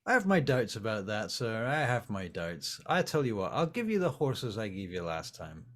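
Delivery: a lightly voiced doubting stablehand; gruff stablehand. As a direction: keep him dry and distrustful.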